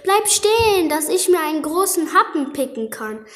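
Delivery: high, loud pecking rooster. Acted. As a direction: crow it out like a greedy rooster. Rooster wants to eat pancake.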